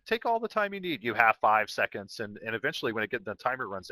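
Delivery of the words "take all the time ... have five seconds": automated Portal voice. Retold or imitated. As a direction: lightly play a cheery computer announcer. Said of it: "the automated Portal voice".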